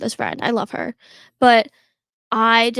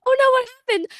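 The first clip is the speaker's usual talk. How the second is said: retold alarm; 12 semitones higher, 4 dB louder, much faster than usual. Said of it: "And I'm like".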